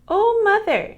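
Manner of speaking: high startled "Oh, mother"; a child's panicked call; elder daughter crying out to her mother; alarmed cry. A narrator's reading. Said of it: "elder daughter runs home frightened".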